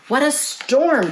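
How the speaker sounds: high, chirpy exclamation; twittering wren. Acted. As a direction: chirp it like a little bird. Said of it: "twitters wren".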